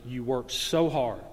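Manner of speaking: a hint of a wife holding back tears, slow and low; tearful, low and slow. Preacher voicing the wife to her husband: slow, low, lightly tearful. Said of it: "Evie started crying".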